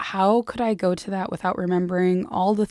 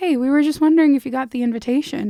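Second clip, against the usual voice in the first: put-on chipper young woman voice, loud and pitched up; 6 semitones higher, 6 dB louder than usual. Retelling a scene from a book where a caller phones: imitating a chipper-sounding young woman. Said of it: "this kind of chipper sounding young woman".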